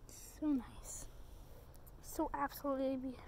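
soft whisper. Real, not acted. Admiring the paint dents, soft whisper. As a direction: hush it like ASMR.

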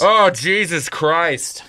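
slow, weary sigh of annoyance; exasperated groan. Acted. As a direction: drag it out, fed up. Bartender exasperated.

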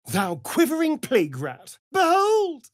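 behold! flung out high and loud with a laugh; gloating cry. Acted. Vampire crowing over a foe, loud and high. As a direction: crow it over the beaten foe.

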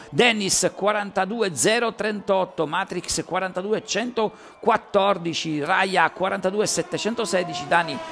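fast race commentary, rising with the action; live play-by-play. Real, not acted. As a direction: call the qualifying lap live. Reading out results.

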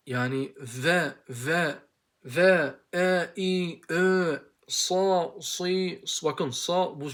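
"ve, e, i, ö, sa" sílabas sueltas, lentas; vowel demo. Shown as a demonstration. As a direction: muestra vocales una a una. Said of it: "bu şey değil".

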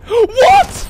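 loud, high What; surprised shout. Real, not acted. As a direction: shout in shock. Surprised shout at game event.

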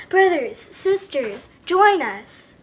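lightly voiced preacher call; a hint of mission preacher; Sarah Brown impression. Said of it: "my best impression of Sarah Brown".

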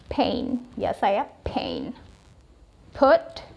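pain and put with a puff of air on p; model pronunciation. Shown as a demonstration. Teacher contrasting p with b. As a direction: aspirate the p in pain. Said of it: "strong dia ya penekanannya".

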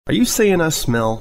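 mild defensive snap; bristling at her friend's question, mildly snapped. Acted. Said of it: "Applejack snapped".

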